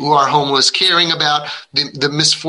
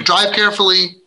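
parroting parent cliché; 5 semitones higher than usual. Retold or imitated. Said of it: "stupid parenting quotes".

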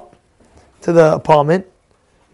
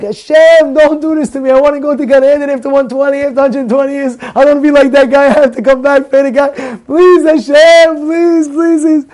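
desperate pleading prayer; 7 semitones higher, 4 dB louder than usual. Retold or imitated. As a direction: plead with God, voice straining upward. Begging God on the curb.

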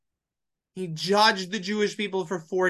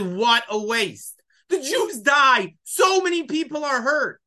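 retold dismayed protest; 5 semitones higher than usual. Teacher voicing a rabbi's objection to his class, dismayed protest.

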